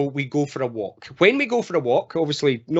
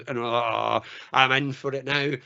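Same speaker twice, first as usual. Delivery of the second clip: guilty dread; 3 semitones lower than usual. Acted. Man realising he forgot the washing, guilty mock dread. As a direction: groan to yourself at your own mistake. Same man sees the puddles.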